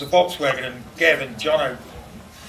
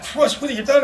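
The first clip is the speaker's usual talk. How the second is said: high mock alarm; retold alarm; 10 semitones higher than usual. Hearing a crash down the phone, high mock alarm. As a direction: react as if something broke. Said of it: "I said".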